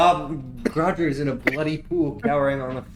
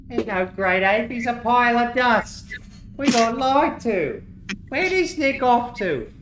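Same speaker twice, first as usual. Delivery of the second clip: much higher outraged goblin; angry goblin; 10 semitones higher than usual. Acted. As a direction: rant like a betrayed follower. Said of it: "That goes".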